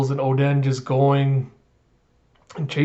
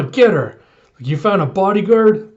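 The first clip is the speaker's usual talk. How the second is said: pirate shouting orders; 5 semitones higher, 6 dB louder than usual. Retold or imitated. Pirates attacking Toki and Oden.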